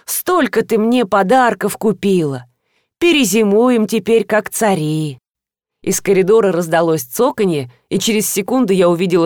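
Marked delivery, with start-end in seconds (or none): 0.0-5.2 slow, lightly voiced old teacher; a hint of elderly wonder; grateful old woman. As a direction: marvel slowly, stretching the words.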